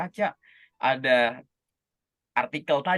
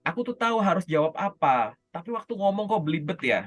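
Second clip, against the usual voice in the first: voicing a tongue-tied candidate's complaint, slightly higher; mildly puzzled grumble, pitched up; imitated complaint; 4 semitones higher than usual. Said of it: "Keluhannya tuh". (menirukan keluhan bingung)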